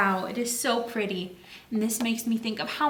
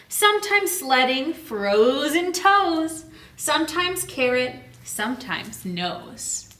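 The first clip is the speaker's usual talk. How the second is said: slow, lilting rhyme reading; read-aloud storytime; slower than usual. Acted. Teacher reads the rhyme to her class, slow and lilting. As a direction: savour each line for the kids. Reads rhyming book text.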